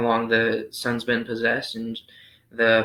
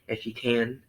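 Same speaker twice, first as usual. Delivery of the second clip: "If you can" said softer, as a doubtful question rising on "can"; almost asking; 5 dB quieter than usual. Shown as a demonstration. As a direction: let "If you can" hang as a half-question. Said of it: "almost asking".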